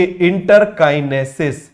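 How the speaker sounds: इंटरकाइनेसिस said slowly, each syllable drawn out for the class; teacher slowly dictating इंटरकाइनेसिस; slow drilled term. Shown as a demonstration. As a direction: spell out इंटरकाइनेसिस slowly so students repeat it. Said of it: "क्या बोलेंगे?".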